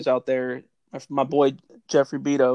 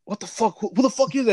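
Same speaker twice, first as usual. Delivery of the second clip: mock startled alarm; 7 semitones higher than usual. Roommates hearing someone at the window, mock startled. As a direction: pitch climbing into imitated alarm. Acting out their startled reaction.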